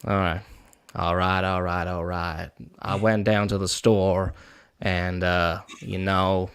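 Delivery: slow Southern drawl, McConaughey style. Pretend. Southern drawl for the friends who asked for a good old Southern boy. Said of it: "kind of Matthew McConaughey-esque, like, Southern drawl".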